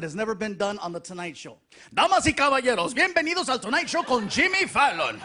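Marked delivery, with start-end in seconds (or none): 1.9-5.2 booming Spanish TV announcer; Telemundo-style Spanish announcer; lucha libre announcer. Acted. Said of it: "he's doing the Telemundo thing".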